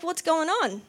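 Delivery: lightly acted confusion; confused. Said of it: "He was so confused".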